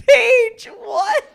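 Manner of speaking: high shouted name; frightened shout. Real, not acted. Cohost scared by a mystery sound, shouting her friend's name. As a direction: yell her name in alarm.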